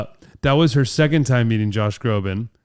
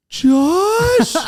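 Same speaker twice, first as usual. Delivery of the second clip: shrieked name, much higher and louder; starstruck shriek; 5 dB louder than usual. Retold or imitated.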